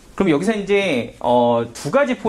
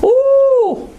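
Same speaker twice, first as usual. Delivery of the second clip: a sudden high, loud "oh!"; surprised exclamation; 9 dB louder than usual. Real, not acted. Teacher startled by the graph, a loud, high "oh!". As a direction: burst out in delight at the board.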